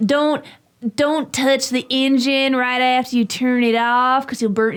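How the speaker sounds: put-on, real-sounding southern US accent. Retelling reading tractor manual warnings aloud in a put-on southern accent. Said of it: "a real southern accent".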